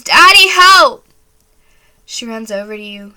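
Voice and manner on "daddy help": high, piercing scream for Daddy; a terrified little girl shrieking for her father; screaming for help. Acted. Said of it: "She screams".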